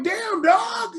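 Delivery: high-pitched, incredulous whine; exasperated high-voiced reaction; mock upset protest. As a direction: retell it as a squeaky, put-out complaint. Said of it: "I was kinda mad about that".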